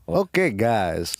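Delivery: slow mock Portuguese accent; put-on Portuguese-accented phrase. Shown as a demonstration. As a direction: draw it out in an imitation Portuguese accent. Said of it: "that's Portuguese".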